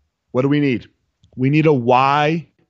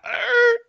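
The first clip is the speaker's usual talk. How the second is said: high strangled growl of frustration; frustrated growl. Retold or imitated. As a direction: imitate losing your cool with a growl. Mimics own outburst on missing.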